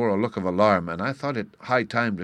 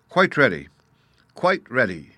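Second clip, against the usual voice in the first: eager chorus reply; 4 semitones higher, 6 dB louder than usual. A narrator's reading. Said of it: "came from all sides".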